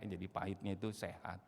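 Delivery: ordinary talk, nothing marked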